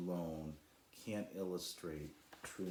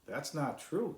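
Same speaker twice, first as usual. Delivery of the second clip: high, louder protest; exclaiming; 8 semitones higher, 5 dB louder, slower than usual. A narrator's reading. Sly contradicting the dying cloud, high and loud. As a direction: burst out to contradict her. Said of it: "exclaimed Sly".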